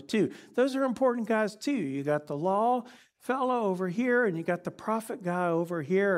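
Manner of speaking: Peter enthusiastically proposing tabernacles; excited Peter. Acted. Peter offering Jesus three tabernacles, excited and high. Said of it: "Peter said".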